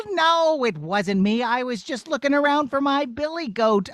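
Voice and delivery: put-on innocent boy brushing it off; shepherd boy. Shepherd boy denying he chased the princess.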